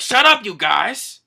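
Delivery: loud, high, drawn-out shout; mock exasperated holler; irritated yell. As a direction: shout them down, acting annoyed. Acted Zoro silences the yellers.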